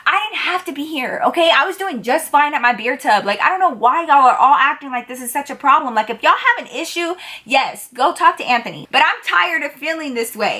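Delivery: high, fed-up inner rant; exasperated. Retold or imitated. Her inner voice ranting at the annoyed coworkers, exasperated. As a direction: vent like you've had enough.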